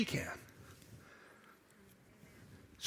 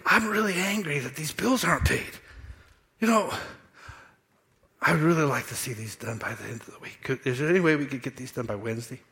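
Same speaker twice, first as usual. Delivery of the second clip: calm request; 3 dB quieter than usual. Retold or imitated. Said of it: "But if I say".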